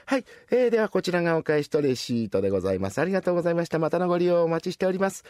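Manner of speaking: brisk polite shop clerk voice; cashier. Acted. Rakugo teller voicing a busy cashier to a customer, brisk. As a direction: rattle off the register thanks quickly.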